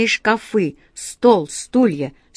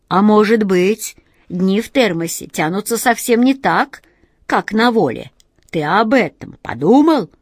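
reproachful genie; 3 dB louder than usual. Acted. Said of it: "С глубоким упрёком".

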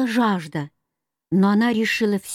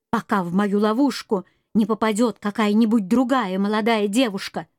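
mild raised furious voice; a touch of rage, lightly voiced; furious shouting; 3 semitones higher than usual. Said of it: "в бешенстве закричала".

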